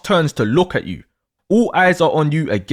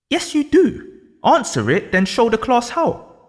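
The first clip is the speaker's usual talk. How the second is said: lightly voiced teacher, sure and firm; a hint of a teacher who won't take no; confident; 4 semitones higher than usual. Teacher insisting to a pupil, mildly confident. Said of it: "The teacher confidently responds".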